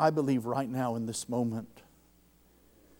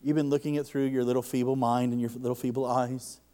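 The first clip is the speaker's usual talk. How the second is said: gentle voice of the Lord. Retold or imitated. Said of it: "He said".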